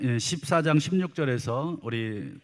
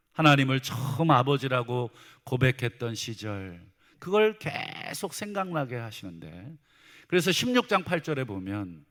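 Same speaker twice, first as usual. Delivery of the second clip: ordinary talk, nothing marked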